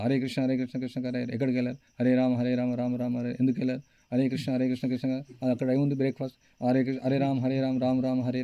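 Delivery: mumbled mantra broken by stray thoughts; distracted japa. Shown as a demonstration. Preacher showing the congregation careless chanting, absent-minded mumble. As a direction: chant on autopilot while the mind wanders. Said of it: "ఇక్కడ ప్రార్థన భావం రాదు".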